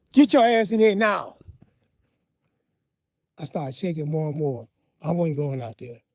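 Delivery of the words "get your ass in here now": stern command. Retold or imitated. Father voiced, commanding.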